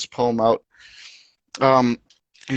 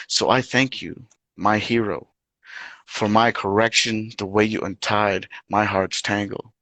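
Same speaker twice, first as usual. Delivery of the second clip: poetry reading. Acted. Reads mother-daughter poem.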